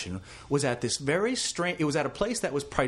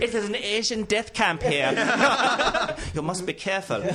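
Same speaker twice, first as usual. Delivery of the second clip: mock ominous warning; 6 semitones higher than usual. Mock warning about the scary room.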